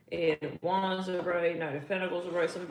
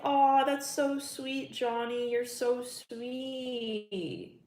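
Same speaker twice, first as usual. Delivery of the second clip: drawn-out syrupy voice, higher, slow; cooing mock sweetness; 5 semitones higher, much slower than usual. Girlfriend fondly answering her ex, drawn-out cooing voice. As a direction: coo it like a touched girlfriend, slowly. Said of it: "It's like".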